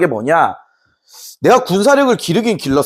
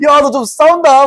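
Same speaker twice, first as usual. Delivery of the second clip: high-pitched acted admiration; hammed-up "not bad!" exclamation; impressed praise; 8 semitones higher, 3 dB louder than usual. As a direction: praise a fighter who has surprised you. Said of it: "이런 이제 칭찬을 들었다고".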